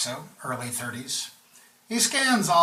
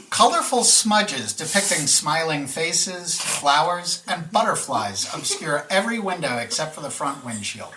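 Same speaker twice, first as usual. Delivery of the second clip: emphatic, louder descriptive narration; game master's scene setting; 3 dB louder than usual. A narrator's reading. Game master describing a character to the players, measured narration. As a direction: paint the picture phrase by phrase, with pauses.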